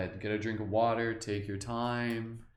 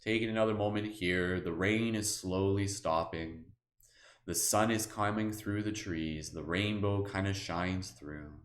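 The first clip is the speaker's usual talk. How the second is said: guided meditation. Acted. Guide listeners through the forest, in a calm meditation voice. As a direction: ease them gently through the scene.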